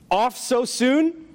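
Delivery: slow, drawn-out angel voice; unearthly voice. Acted. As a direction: speak as a calm, burning angel. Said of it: "said an angelic-like creature".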